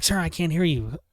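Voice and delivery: imitated dispatcher raising their voice; mock dispatcher shouting for a response; calling down bad line. Imitating dispatcher on a failing call.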